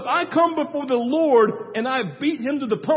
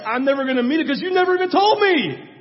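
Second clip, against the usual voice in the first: louder, higher, pressing the point home; emphatic; 4 semitones higher, 5 dB louder, faster than usual. Real, not acted. Pastor presses congregation on unmet expectations, emphatic and louder. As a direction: lean in and drive it home with force.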